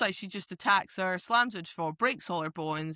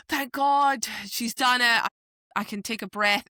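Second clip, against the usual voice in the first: relieved; 4 semitones higher, 4 dB louder than usual. Retold or imitated. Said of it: "were you not just reading it going".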